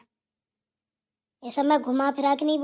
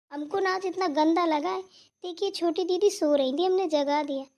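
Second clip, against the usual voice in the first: higher, wounded and whiny; tearful complaint; 4 semitones higher than usual. Acted. To elder sister about the sleeping sister, whiny and hurt. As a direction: tell on her like a hurt child.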